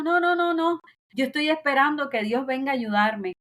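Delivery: high, loud no no no, brushing off help; insistent refusal. Retold or imitated. Drowning man refusing the boat: high, loud, stubborn. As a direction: wave away the rescuer, stubbornly.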